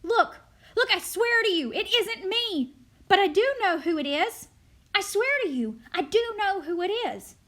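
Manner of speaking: loud, high, urgent protest; frantic pleading. Acted. Charlie swearing to the crowd it isn't him, loud frantic pleading.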